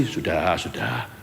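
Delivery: low, soft unbothered enough; murmured calm brush-off; calm low dismissal. Retold or imitated. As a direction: settle it quietly, not rising to the bait. Calm person dismissing the angry one.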